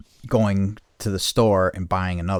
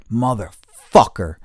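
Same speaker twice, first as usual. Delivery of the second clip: drawn-out curse; 3 semitones higher, 6 dB louder, slower than usual. Retold or imitated. Retold curse while searching.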